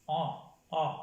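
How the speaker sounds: On nasal, with a held-nose sound; On, a nasal o without an n. Shown as a demonstration. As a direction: say On through the nose. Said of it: "como si nos tapáramos la nariz".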